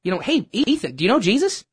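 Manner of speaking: self-reproach. Real, not acted. Regretting not praying with him.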